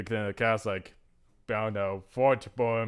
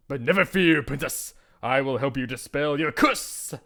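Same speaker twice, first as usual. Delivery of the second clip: loud heroic reassurance; lightly voiced storybook hero; gallant knight; 4 dB louder than usual. Knight promises to lift princess's curse, gallant.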